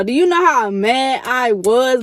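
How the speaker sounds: indignant question. Real, not acted. Telling listeners about her anger.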